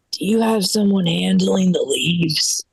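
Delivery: lightly voiced slow, solemn complainer; a touch of a ponderous male caller; grown man caller. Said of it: "phone call from this grown man".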